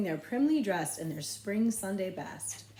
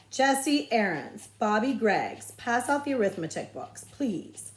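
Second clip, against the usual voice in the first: slow, louder roll-call voice; teacher calling out; 3 semitones higher, 4 dB louder than usual. Acted. Teacher assigning boys a chore, slow and loud.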